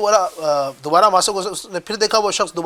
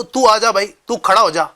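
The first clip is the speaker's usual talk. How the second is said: blunt informal command; 3 semitones higher, 4 dB louder than usual. Shown as a demonstration. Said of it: "بات دونوں ایک ہی ہے".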